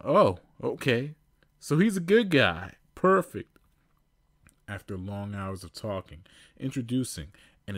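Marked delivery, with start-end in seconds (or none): 0.0-3.6 higher, louder happy relief; cheered up. Acted. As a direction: brighten up. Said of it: "got his smile back on".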